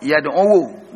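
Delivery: Yad'u ending in an audible "-uwu"; waw with dhamma. Shown as a demonstration. Teacher demonstrates the heavy reading to students, Yad'u ending "-uwu".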